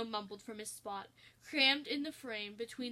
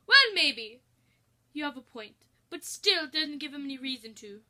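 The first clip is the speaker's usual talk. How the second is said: chef voice; 2 semitones higher, 10 dB louder than usual. Acted.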